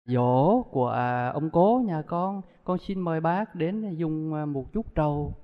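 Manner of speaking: slow, soft, humble invitation to an elder; bow your voice and invite the uncle slowly; softly deferential son inviting an uncle to the memorial; polite invitation. Retold or imitated. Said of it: "Dù đến nhà nói".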